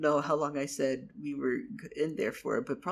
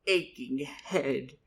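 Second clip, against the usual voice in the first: louder, slow pained groaning; slow dazed moan after hitting a tree; 5 dB louder, slower than usual. Acted. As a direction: moan it out, hit on the head. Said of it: "and I went".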